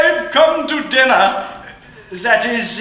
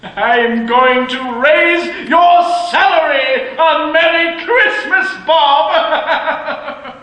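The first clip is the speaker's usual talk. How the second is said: laughing reveal; 3 semitones higher, slower than usual. Acted. Scrooge springs raise on clerk.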